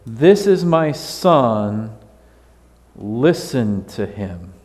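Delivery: slow, solemn voice of God; voice from heaven. Acted. God speaking to the disciples on the mountain, slow and solemn. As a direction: proclaim it slowly from above. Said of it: "a voice cried out".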